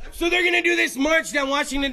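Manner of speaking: loud laughing announcement; laughing shout. Real, not acted. Laughing excitedly about Juggalo march.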